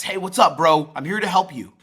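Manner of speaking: loud, pushy and high; too intense. Shown as a demonstration. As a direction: come on way too strong, bro style. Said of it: "too intense".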